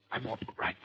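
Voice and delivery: breathless, faint reassurance; barely able to speak; weak wounded. Acted.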